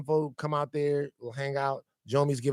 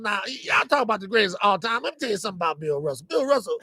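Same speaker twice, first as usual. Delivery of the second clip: put-on light, louder old man ramble; old man Isaiah voice; 4 semitones higher, 4 dB louder than usual. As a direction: play a cranky old-timer, lightly. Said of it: "Old Man Isaiah Blakely".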